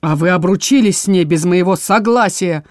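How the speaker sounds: ordinary delivery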